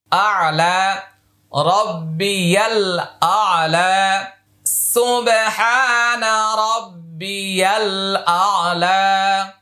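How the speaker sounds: slow chanted tasbih with long vowels; slow Quranic recitation. Shown as a demonstration. Teacher reciting the tasbih slowly for learners. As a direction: recite it slowly, sing-song. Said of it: "এক আলিফ টানতে হবে".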